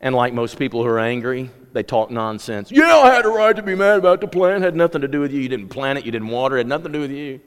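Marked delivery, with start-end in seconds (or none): 2.7-7.4 higher, louder sulky retort; petulant Jonah. Acted. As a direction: snap back like a sulking child. Angry Jonah talks nonsense.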